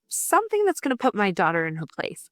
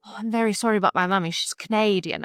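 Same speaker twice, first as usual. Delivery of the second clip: mock English accent. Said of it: "She'll correct my Canadian accent".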